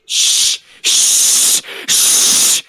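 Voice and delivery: hushed unvoiced shh; shushing. Real, not acted. Shushing the host.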